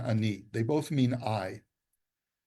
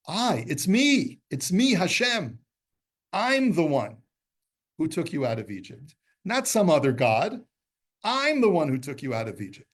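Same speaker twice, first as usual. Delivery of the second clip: emphatic God voice; 4 semitones higher, 3 dB louder than usual. Acted. God to the Jews, insisting it is he himself. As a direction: proclaim as God that it is you alone. Voicing God's emphatic self-identification.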